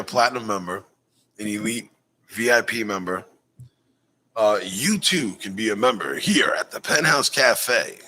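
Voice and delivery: ad read. Acted. Host pitching club memberships to viewers, ad read. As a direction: draw it out like a membership promo.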